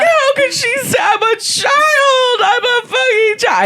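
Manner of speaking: high, loud, drawn-out hammed-up wail; mock crying. Kid betrayed by older cousin, screeching mock sob. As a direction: wail it like a wounded child. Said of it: "I started crying immediately".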